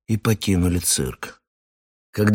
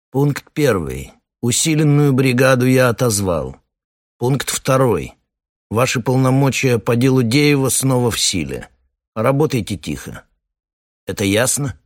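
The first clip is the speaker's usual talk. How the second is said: calm commanding colonel; 5 semitones higher than usual. Acted. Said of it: "глубокий, спокойный, бархатный голос".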